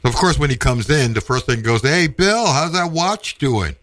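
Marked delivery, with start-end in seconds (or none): 1.8-3.8 imitating dad. Dad asks about the watch.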